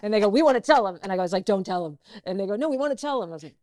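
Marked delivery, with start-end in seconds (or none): 0.3-1.0 high, loud eager chorus, imitated; mock excited teasing. Excited trailer crew tease her. 1.4-2.0 loud but not raised in pitch; retold urgent plea. First plea to trailer crew. 2.6-3.3 high, loud teasing, imitated; mock eager insistence. Trailer crew insist, retold.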